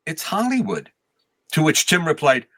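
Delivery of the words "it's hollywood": standing his ground. Retold or imitated. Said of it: "stood his ground".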